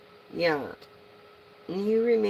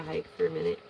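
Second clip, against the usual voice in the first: unicorn voice; 14 semitones lower, much faster than usual. Retold or imitated. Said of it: "the unicorn said".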